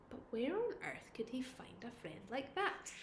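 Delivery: put-on whispered suspense for children; storyteller's whisper. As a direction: lean in and whisper the question. Suspense whisper to young listeners.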